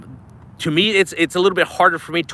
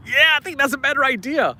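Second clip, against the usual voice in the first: sheepish reply; 8 semitones higher than usual. Retold or imitated. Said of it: "I'm like".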